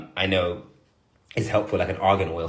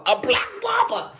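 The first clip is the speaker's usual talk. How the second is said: high-pitched, drawn-out exclamation; exasperated outburst; slower than usual. Real, not acted. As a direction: cry it out in exasperation. Venting about needing a barber.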